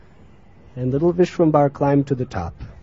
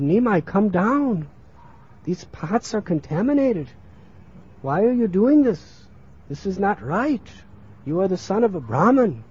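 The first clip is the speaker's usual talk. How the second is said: higher-pitched pleading reproach; worried scolding; 5 semitones higher than usual. Acted. Mother scolds son sitting on dirty pots, worried scolding. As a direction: chide him in a raised pitch.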